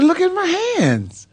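high, pleading, half-sobbed; retold crying plea. Crying to his dad about his hands. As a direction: plead through tears. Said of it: "And I'm crying".

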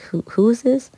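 high, puzzled who is this; baffled at a mystery caller; puzzled question. Retold or imitated. Confused singer asking the caller who it is, high and baffled. Confused on surprise phone call.

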